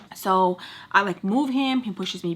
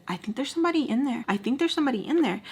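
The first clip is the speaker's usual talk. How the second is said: higher, quick mock girl's voice; lightly voiced girl, pitched up and hurried; imitating a girl; 5 semitones higher, faster than usual. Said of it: "I hear a girl say".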